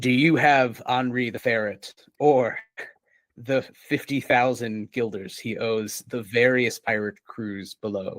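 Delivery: deep, sonorous, stony voice like stones in surf. A game master voices a character speaking to a player, deep sonorous voice. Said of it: "says in in a deep sonorous voice, somewhat like stones being mixed among waves".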